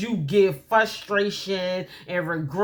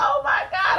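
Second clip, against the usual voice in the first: retold shock.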